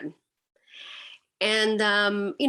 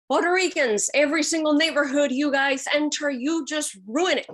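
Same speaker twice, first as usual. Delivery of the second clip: mimicking a stranger's accusing rant, pitched up; imitated rambling rant; 4 semitones higher than usual. Stranger ranting at a Puerto Rican reporter, imitated rambling. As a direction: reel off accusations in a raised pitch. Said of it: "he started rambling".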